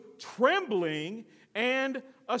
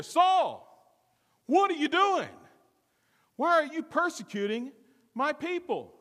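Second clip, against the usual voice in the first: higher and louder, a calling boom; 7 semitones higher, 3 dB louder than usual. Shown as a demonstration. Preacher voices Jesus calling down to Saul, loud and booming. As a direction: boom it out from heaven. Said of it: "loud enough for everybody to hear".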